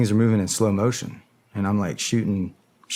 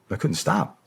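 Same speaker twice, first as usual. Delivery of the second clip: ordinary talk, nothing marked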